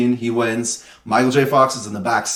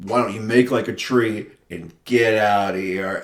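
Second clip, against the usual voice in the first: put-on old man's line; 3 semitones lower, 3 dB quieter than usual. Retold old man's correction.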